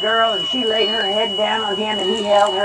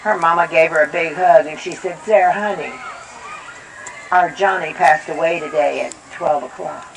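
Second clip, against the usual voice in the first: solemn; 6 semitones lower, 3 dB quieter than usual. A narrator's reading. Tragic reveal, low soft.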